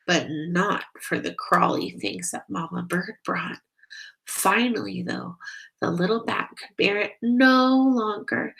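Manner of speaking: gentle read-aloud storytelling voice; story narration. Acted. Narrator reading a bat story to children, gently. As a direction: read it like a bedtime picture book. Reads picture book aloud.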